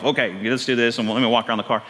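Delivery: a hint of brusque, low-pitched authority; gruff examiner. Retold driving examiner speaking to the next candidate, mildly gruff. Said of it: "comes right out real gruff".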